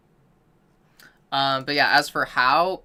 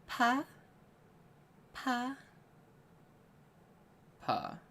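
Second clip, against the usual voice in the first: pitch jumps on pa; 10 semitones higher, 9 dB quieter, much slower than usual. Shown as a demonstration. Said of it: "start at your comfortable range".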